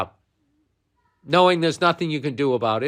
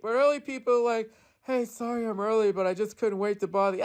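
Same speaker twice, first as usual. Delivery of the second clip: mock rant of his own joke, pitched way up; Bill Burr impression; 9 semitones higher than usual. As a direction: ham up a parody of yourself, yelling it way up high. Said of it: "my impression of people's impression of me".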